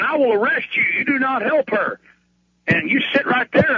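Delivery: lightly acted police threat; imitated threatening cop. Cop warning EMTs off helping the patient, mock threatening.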